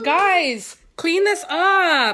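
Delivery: loud slow telling-off; scolding. Real, not acted. Mom scolding kids.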